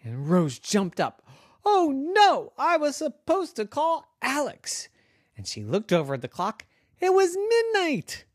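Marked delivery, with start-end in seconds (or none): 1.6-4.9 put-on much higher girl's voice; startled girl. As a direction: squeak out a sudden panic. Girl character realizes she forgot.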